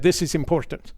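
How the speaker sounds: attempted French Canadian accent, only lightly put on; a hint of a clumsy French accent; bad French accent. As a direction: try a French accent and do it badly. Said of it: "It was a terrible French accent".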